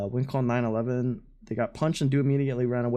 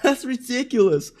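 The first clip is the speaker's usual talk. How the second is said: high-pitched, laughing disbelief; 10 semitones higher, 3 dB louder than usual. Real, not acted. Streamer reacting to an insane apology before a punch, laughing. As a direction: talk through real laughter, voice climbing high. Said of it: "I'm laughing 'cause that's insane".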